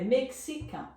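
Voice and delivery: mexican as "mek-si-KAN", X sounding "ks"; French pronunciation. Shown as a demonstration. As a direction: say mexican the French way, nasal ending. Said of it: "Em francês". (mexican com X de "ks", à francesa)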